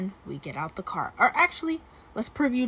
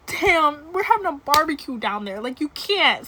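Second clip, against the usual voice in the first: mock protest; 6 semitones higher, 6 dB louder than usual. She protests to him.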